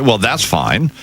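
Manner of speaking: a hint of a breezy Jesus, rising high at the end; lightly voiced Jesus, quick and glib; mock Jesus voice. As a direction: play Jesus as casually cheerful about the execution. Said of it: "that Jesus would say".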